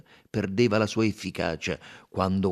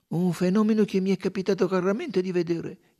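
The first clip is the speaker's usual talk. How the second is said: cordial; 11 semitones higher, 6 dB louder than usual. Acted. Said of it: "disse in tono cordiale".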